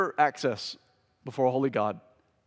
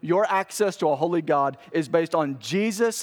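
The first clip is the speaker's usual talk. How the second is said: higher, driving, relentless preaching cadence; impassioned preaching; 3 semitones higher, 3 dB louder than usual. Real, not acted. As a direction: pile up each point with rising urgency. Preacher builds rapid list to climax.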